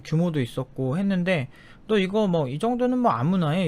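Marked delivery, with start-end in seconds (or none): 1.9-3.7 belittling. Retold or imitated. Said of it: "존나 막 비하해요".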